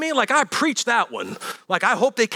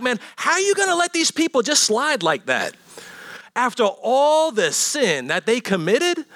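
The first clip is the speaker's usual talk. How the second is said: indignant Jonah. Retold or imitated. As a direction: play an outraged Jonah griping at God. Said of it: "'cause Jonah was like".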